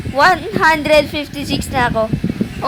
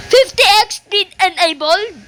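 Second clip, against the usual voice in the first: higher-pitched excited call-out; excited shouting; 4 semitones higher than usual. Real, not acted. Streamer announcing a speed boost, excited raised call. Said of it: "Ba't nga pala ako sinisigaw?".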